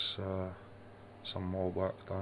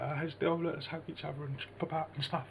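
higher mock-sweet imitation with a laugh; mocking them; 9 semitones higher than usual. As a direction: send up their hugging in a high, laughing voice. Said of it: "they're all like".

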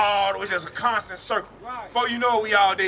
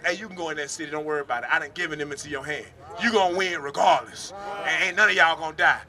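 reassuring voice of God; 4 semitones lower than usual. Acted. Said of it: "He would tell Moses".

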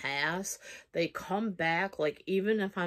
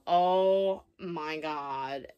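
long, drawn-out disbelief; retold stunned realisation; much slower than usual. Woman realising who texted her, stunned. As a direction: stretch every word as it sinks in.

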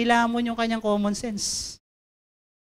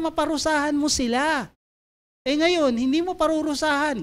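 Jonah griping to God, pitched higher, resentful; a prophet whining that God forgave his enemies; sulking Jonah; 5 semitones higher than usual. Acted. Jonah complaining to God about mercy, higher bitter whine.

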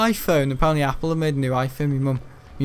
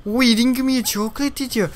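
high, loud mock diva voice; a hammed-up celebrity threatening over a chocolate; impression of a pop singer; 9 semitones higher, 3 dB louder than usual. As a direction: put on a bossy pop star voice, pitched up. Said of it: "Who am I, some bloody pop star?".

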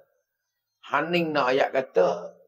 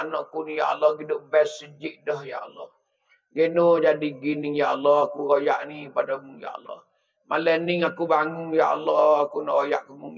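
pleading prayer; 3 semitones lower than usual. Acted. Parent praying at midnight for a wayward child, hushed pleading prayer. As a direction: pray it like a worried parent at midnight.

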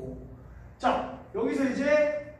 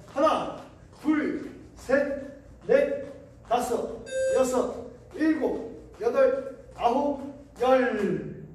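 barking gym coach; 2 semitones higher, much slower than usual. Real, not acted. Coach counting jumps aloud.

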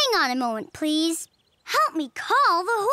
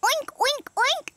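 oink, oink, oink, said higher like a pig; 5 semitones higher than usual. Pretend. Animal caller answers the farmer with oinks. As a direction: mimic a playful pig grunt. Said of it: "what sound does a pig make?".

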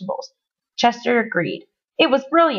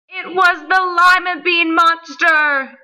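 high, slow, drawn-out announcement; dramatic reveal; 8 semitones higher, 3 dB louder, slower than usual. A narrator's reading. Narrator revealing the lima bean monster, dramatically.

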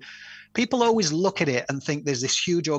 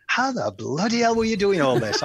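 laughing mock disbelief; 6 semitones higher, 3 dB louder than usual. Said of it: "And people are like".

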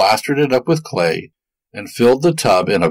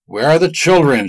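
higher, louder angry demand; witch shouting; 6 semitones higher, 3 dB louder than usual. A narrator's reading. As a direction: shout for the missing children. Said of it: "she shouted".

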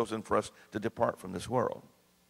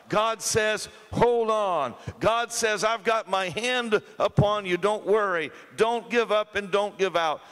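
raised, urgent exhortation; fervent preaching; 3 semitones higher, slower than usual. Acted. Preacher telling the church God says hold on, fervent. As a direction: call it out to the room.

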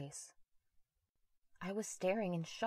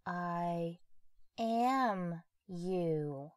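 almost mocking; 6 dB louder, much slower than usual. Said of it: "His voice was almost mocking".

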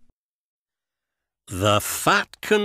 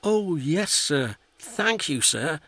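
much higher, eager thank-you; a delighted small engine thanking his boss; happy little engine; 8 semitones higher than usual. A narrator's reading. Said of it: "said Percy happily".

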